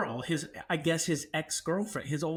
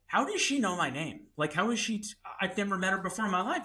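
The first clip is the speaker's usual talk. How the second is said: higher, fast indignant protest; a touch of outrage; mild anger; 4 semitones higher, faster than usual. Retold or imitated. Angry at roommate about the girl, mild indignation. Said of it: "then I get mad".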